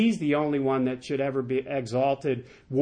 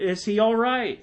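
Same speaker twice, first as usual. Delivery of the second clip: raised-pitch, pressing question; demanding; 6 semitones higher than usual. A narrator's reading. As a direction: demand to know, voice lifted high. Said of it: "the king demanded".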